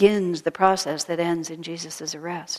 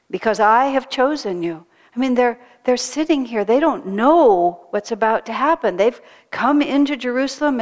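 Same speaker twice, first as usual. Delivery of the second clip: impassioned preaching; 4 semitones higher, 5 dB louder than usual. Real, not acted. Preacher building intensity.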